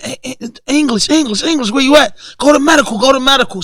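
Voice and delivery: mock guard calling for an inmate; calling out a name. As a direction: bark his name down the tier like a guard.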